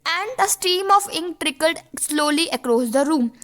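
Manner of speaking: slow, careful reading of the text line; slow dictation read. Shown as a demonstration. Teacher to students, reading the passage slowly. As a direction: read it out slowly for the class to copy.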